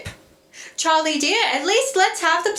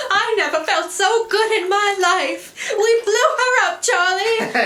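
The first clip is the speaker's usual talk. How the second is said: laughing joy; 2 semitones higher than usual. Acted. Rosie swimming after explosion.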